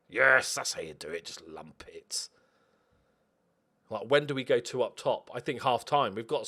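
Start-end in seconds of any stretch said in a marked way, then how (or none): 0.1-2.3 hushed conspiratorial whisper. Acted. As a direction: whisper the plan like a secret. Secret tactical aside to himself.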